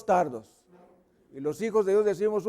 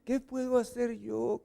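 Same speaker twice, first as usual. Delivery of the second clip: soft, higher-pitched meek plea; very softly; 4 semitones higher, 5 dB quieter than usual. Acted. Helpless husband answering the scolding, soft and meek. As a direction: plead meekly in a small high voice. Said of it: "Pero muy quedito".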